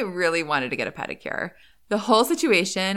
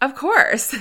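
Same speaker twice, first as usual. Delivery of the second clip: matter-of-fact, no-question-about-it tone, pitched up; 8 semitones higher than usual. Retelling a nail salon worker's reply: imitating a matter-of-course tone. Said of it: "something about the way he said it".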